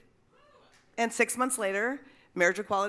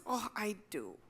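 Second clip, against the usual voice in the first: knowing murmur; 8 dB quieter than usual. Retold or imitated. Woman at the door answers the canvasser, soft and knowing. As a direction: say it quietly, like she knows too well. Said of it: "And she goes".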